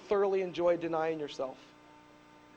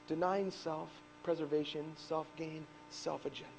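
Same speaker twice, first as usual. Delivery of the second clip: quiet reflection; 9 dB quieter than usual. Acted. Pastor to the church, soft and reflective. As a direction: let it sink in gently.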